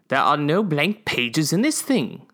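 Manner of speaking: contemptuous. Acted. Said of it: "His voice reverberated with contempt".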